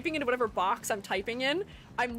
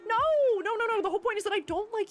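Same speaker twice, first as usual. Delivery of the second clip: protesting; 10 semitones higher, 3 dB louder than usual. Real, not acted. Denies chat's teasing.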